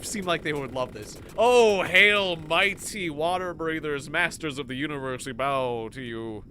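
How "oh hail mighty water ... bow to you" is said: groveling worship. Pretend. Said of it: "maybe you like it when I'm like".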